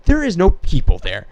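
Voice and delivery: loud, high mocking German man; loud parody of the German man's idea; mock incredulous. Mimicking German man's belief.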